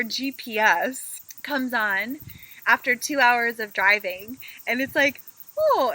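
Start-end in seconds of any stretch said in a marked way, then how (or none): 5.6-5.9 put-on GPS accent. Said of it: "in her little accent".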